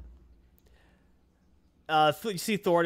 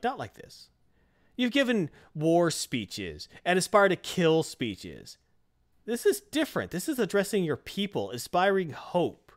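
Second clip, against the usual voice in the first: mock taunt, pitched higher; 4 semitones higher than usual. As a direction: needle him, lifting the voice at the end. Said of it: "Loki's kinda taunting him".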